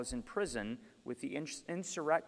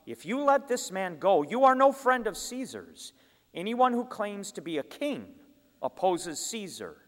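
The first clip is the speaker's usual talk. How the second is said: shouting; 6 semitones higher than usual. A narrator's reading. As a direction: hurl it at the governor. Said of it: "the Jews kept shouting".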